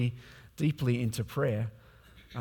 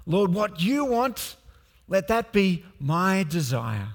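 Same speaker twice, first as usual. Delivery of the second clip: fervent prayer. Shown as a demonstration. Preacher models God-first praying for the congregation, fervent. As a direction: pray it aloud with full conviction.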